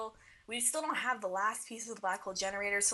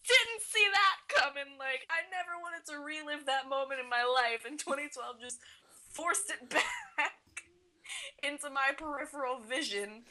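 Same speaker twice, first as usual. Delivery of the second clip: agitated fan reaction; 8 semitones higher than usual. Real, not acted. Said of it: "reacting to shocking scene".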